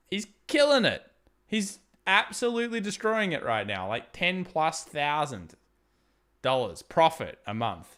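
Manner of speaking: high, loud burst of amazement; can't believe how well he's doing; excited. Real, not acted. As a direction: blurt it out, thrilled for him. Excited news about neighbor's business.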